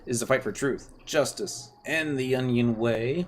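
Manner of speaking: hammed-up kids' gang. Streamer voicing the Star Onion kids, hammed-up and bossy. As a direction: play the proud little brigade leader.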